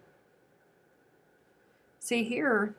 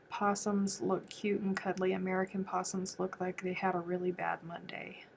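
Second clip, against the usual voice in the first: whisper; 5 dB quieter than usual. Real, not acted. Whispered joke about possums.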